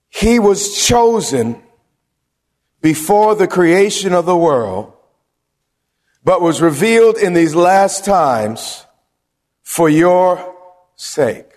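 slow, weighty verse read aloud; deliberate preacher's scripture reading. Acted. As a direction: read the verse slowly, leaning on each phrase.

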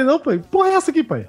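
a son calling his father Jão as a joke; mock surprise. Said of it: "Eu falei".

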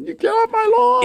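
put-on high cranky old man shout; grumpy old man yelling. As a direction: yell at kids off your lawn.

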